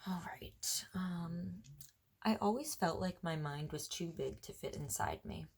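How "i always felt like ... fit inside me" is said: poem reading. Acted. Reads her poem aloud.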